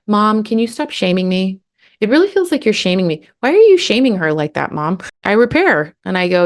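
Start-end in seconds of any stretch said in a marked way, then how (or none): 0.1-5.0 slightly higher, lightly voiced complaining kid; a kid lightly imitated, calling mom out; kids confronting mom. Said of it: "they'll tell me".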